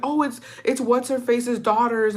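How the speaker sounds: high, slow, halting mock sob; breathless crying. Crying girl answering her mom's question, imitated breathless crying. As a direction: imitate struggling to get words out through tears. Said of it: "I couldn't breathe".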